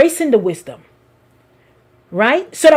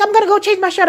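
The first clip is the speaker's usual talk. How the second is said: imitated child; 7 semitones higher, faster than usual. Voices Josiah going to change.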